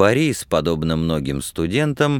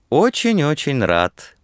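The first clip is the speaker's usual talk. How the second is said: affable reply with lifted pitch; friendly, welcoming; 8 semitones higher than usual. A narrator's reading. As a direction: answer cordially, pitch raised. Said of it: "приветливо ответил Платонов".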